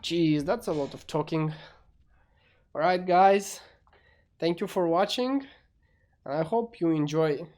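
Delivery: muffled, as if behind a hand; talking through a covered mouth. Real, not acted. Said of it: "my voice is kinda muffled".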